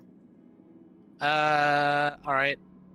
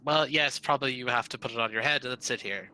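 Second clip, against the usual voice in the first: louder, quicker, a touch exasperated; mild sighing exasperation; 4 dB louder than usual. Acted. Grumbling wizard telling companion how to test it, mildly exasperated. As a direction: give in with a mildly weary, hurried retort. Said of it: "Belda sighs and says".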